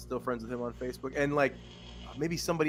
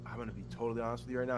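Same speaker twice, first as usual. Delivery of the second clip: fast confession; 4 dB quieter, much faster than usual. Retold or imitated. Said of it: "And I was like".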